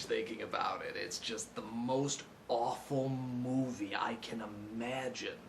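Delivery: soft, breathy whisper of disgust. Acted. Confessing the movie is awful, soft disgusted whisper. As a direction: hush it like a dirty secret.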